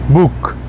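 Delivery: बुक with a long held oo; long Swedish o. Shown as a demonstration. Teacher models long vowel in bok for beginners. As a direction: stretch the oo in बुक. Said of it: "तो यहाँ long को पढ़ेंगे हम".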